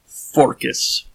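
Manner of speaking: a hint of a Greek accent on Forcus. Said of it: "very heavy Greek accent".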